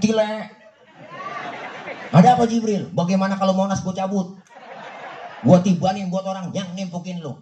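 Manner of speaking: high, eager voice; Jibril's offer. Acted. Jibril offering to drop Monas on the attackers. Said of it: "Datang malaikat Jibril".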